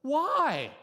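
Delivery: loud, high demand; father demanding where his son was hiding; angry demand. Retold or imitated. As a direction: bark the question at the child.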